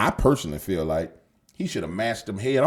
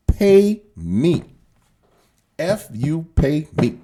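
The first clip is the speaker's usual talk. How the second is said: loud, high, in-your-face demand to pay up; demanding shout; 4 semitones higher, 7 dB louder, much slower than usual. Retold or imitated. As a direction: bark it out like a boss collecting a debt. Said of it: "she says".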